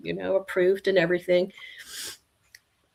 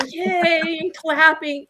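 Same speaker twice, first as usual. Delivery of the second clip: cheering; 8 semitones higher, slower than usual. Retold or imitated. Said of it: "it was so much joy".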